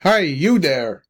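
understated narrated shout, stretched out; mild shout. A narrator's reading. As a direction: draw out a call to someone walking off. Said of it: "It was a shout this time".

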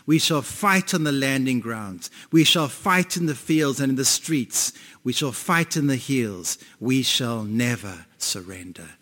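a hint of a wartime leader vowing to fight on; Churchill impression. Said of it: "I'm gonna try to say it the way he said it".

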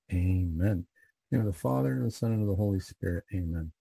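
steady devotional prayer cadence, falling at each amen; measured rosary recitation; recited prayer. Real, not acted. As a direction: pray it aloud as a leader before the group.

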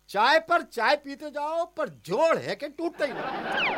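slow, drawn-out exasperated complaint; exasperated grumbling. Acted. Husband grumbling to wife about bread in his tiffin, exasperated. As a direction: lament it slowly, stretching the key words.

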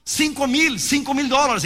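put-on a little boy pleading to be heard; excited child voice.

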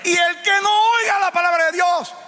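high, slow, shouted preaching; full-force preaching. Acted. Preacher shouting a warning to the congregation. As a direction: preach it at the top of your voice.

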